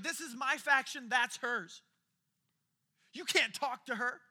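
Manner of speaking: indignant leader. Retold or imitated. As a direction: shove her away with your voice. Leader separates from sinful woman.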